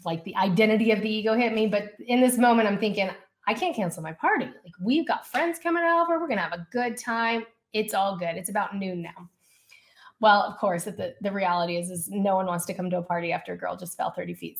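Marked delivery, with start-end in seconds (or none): 3.5-9.3 upbeat insistence. Retold or imitated. Retelling her upbeat denial after the fall.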